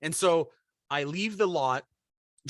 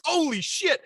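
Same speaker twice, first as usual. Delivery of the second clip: surprised; 14 semitones higher, 4 dB louder than usual. Retold or imitated. Startled at the sight.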